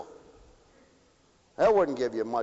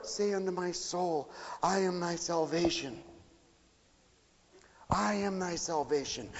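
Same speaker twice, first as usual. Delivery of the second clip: much softer, almost murmured verse; hushed prayerful repeat; 2 semitones higher, 6 dB quieter than usual. Acted. Preacher closing the sermon, hushed prayerful repeat. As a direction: let the words sink in softly.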